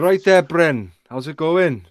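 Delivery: lightly put-on Welsh greeting; mock Welsh accent. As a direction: do a jokey Welsh lilt. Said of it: "They're gonna start on the fucking Welsh".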